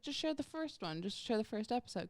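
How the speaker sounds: a hint of the professor insisting. Professor telling her which episode to share, lightly voiced. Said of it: "He's like".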